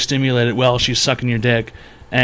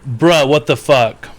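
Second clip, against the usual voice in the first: drawn-out disbelief; 4 dB louder, slower than usual. Real, not acted. Reacts in disbelief to chat.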